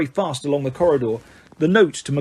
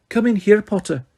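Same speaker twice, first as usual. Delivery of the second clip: brisk, higher, stern McGonagall; snapped; 6 semitones higher than usual. A narrator's reading. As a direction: snap at the student. McGonagall ordering Harry.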